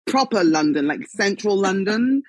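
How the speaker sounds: drawn-out, lightly put-on southeast London accent. Shown as a demonstration. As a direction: lean into her old southeast London accent, playfully. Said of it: "but I do when I do things like this".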